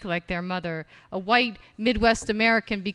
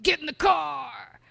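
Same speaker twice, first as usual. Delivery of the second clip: a gruff barked order as dad; father voice; 6 semitones higher than usual. Shown as a demonstration. Dad ordering the kids into the car, father voice. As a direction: bark it like the father. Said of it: "The father".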